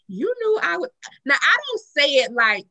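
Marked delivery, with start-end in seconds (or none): 0.1-0.9 nasty nice. Retold or imitated. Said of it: "I be like".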